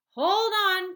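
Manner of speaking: high, loud warning cry; cried. A narrator's reading. Wonka crying to the others to hold on. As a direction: call out a warning. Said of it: "cried Mister Wonka".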